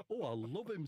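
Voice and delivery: Charlie Williams. Acted. Comic redoes Phil Jones's line, Charlie Williams impression. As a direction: gush it in a light impression. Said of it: "Phil Jones talks like that".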